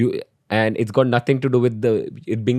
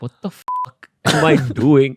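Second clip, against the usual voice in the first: laughing disbelief; 4 semitones higher, 5 dB louder than usual. Retold or imitated. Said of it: "he just realized".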